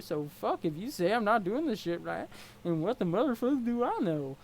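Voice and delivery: easygoing troll, loose and friendly; a lightly voiced laid-back troll; mellow clown troll. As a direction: chill like nothing bothers you. Gamzee troll voice.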